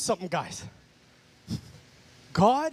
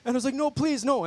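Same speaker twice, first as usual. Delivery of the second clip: pleading no; 5 semitones higher than usual. Retold or imitated. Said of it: "I'm like".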